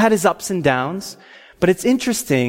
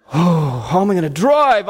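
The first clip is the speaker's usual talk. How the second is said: reeling, overwhelmed exclamation; hammed-up, dazed amazement; acted spiritual intoxication. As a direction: act out being drunk on the Spirit. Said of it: "like I was intoxicated with the Holy Spirit".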